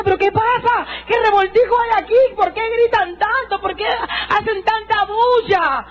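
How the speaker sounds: high, slow confused questions; bewildered cry. Retold or imitated. Woman on the church floor asking what's happening, high and bewildered. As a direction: ask it dazed from the floor. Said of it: "caí al piso y decía".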